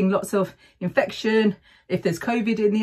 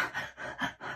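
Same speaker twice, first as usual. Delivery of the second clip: heavy sigh; 16 dB quieter than usual. Shown as a demonstration. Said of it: "and you're like".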